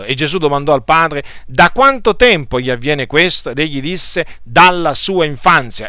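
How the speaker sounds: brisk, steady Bible-reading voice, quotes lightly voiced; scripture reading. Preacher reads Mark nine aloud to the church, in a scripture-reading voice. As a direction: read the Gospel passage out to the congregation.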